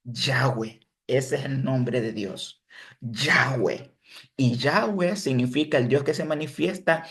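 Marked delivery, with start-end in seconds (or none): 0.0-0.8 Yahweh as "YA-we", two syllables, set apart; original pronunciation. Shown as a demonstration. Teacher showing the name before vowels, Yahweh as "YA-we". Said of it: "se pronunciaba Yahweh". 3.0-3.9 Yahweh as "YA-we", falling on the second syllable; original pronunciation. Shown as a demonstration. Teacher repeating God's name for the class, Yahweh as "YA-we". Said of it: "se pronunciaba Yahweh".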